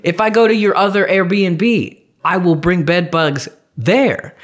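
"bed bugs there" drawn out slowly and insistently; slow, heavy emphasis on "bed bugs there"; retold emphatic warning. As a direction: argue the point, stretching "there". Retold argument with Airbnb.

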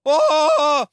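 sudden loud high yelp of alarm; startled cry. Retold or imitated. Driver yelling as the wind takes the car. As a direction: yelp as the truck slides away. Crash, car blown sideways.

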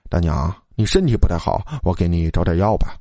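low, mildly caring voice; concerned. A narrator's reading. Student offering the old woman medicine, mildly concerned. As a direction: offer help with gentle concern. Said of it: "老四关心地说".

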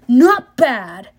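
Not bad! punched out with glee. Ares repeats, louder.

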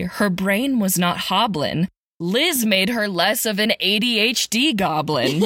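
rhythmic storybook read; sing-song Christmas verse recital; poem reading. A narrator's reading. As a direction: read it like a holiday poem to kids. Reads Christmas poem parody aloud.

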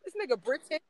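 loud, high shocked outburst; shocked disbelief. Retold or imitated. Discovering the crush is British, loud shocked disbelief. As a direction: blurt it out, stunned he is British. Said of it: "I'm like".

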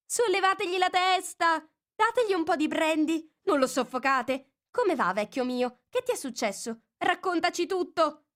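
high, excited fussing helpers; jumbled fussing voices. Acted. Helpers fussing over Bill, high and eager. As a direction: crowd around the fallen lizard. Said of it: "altre voci confuse".

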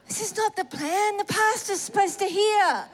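mock-outraged inner complaint; indignant dismay. Woman protesting to God that the plan failed, indignant dismay. Acted dismay at altar call.

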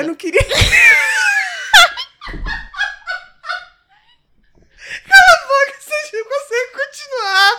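shrieking high and loud through laughter; can barely get words out for laughing; hysterical laughing. Real, not acted. Telling her friend to shut up, shrieking with laughter.

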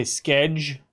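skeg said as one hard syllable, sk; sked sound. Shown as a demonstration. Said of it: "we say".

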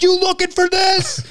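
very high, slow mocking taunt. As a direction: rub it in his face. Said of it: "And I was like".

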